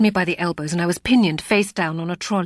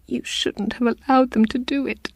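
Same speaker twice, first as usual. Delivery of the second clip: reproachful; 8 semitones higher than usual. A narrator's reading. Reproaching the doctor.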